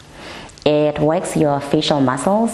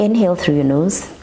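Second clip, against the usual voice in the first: ocean throat breathing; 3 semitones higher than usual. Shown as a demonstration. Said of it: "which goes a little bit like".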